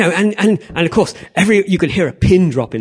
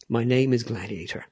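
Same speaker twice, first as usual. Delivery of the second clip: gladiator; 4 semitones lower, 7 dB quieter than usual. Acted. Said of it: "He says it better than me".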